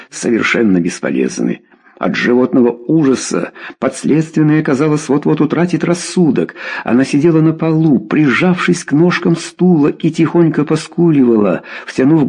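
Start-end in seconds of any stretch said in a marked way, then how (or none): none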